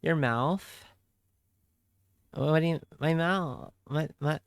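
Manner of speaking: usual speaking voice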